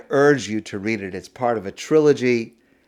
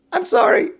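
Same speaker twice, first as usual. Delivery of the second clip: laughing apology. Acted. Thief laughing as he apologizes to the merchant. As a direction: giggle out the apology like a cheeky thief.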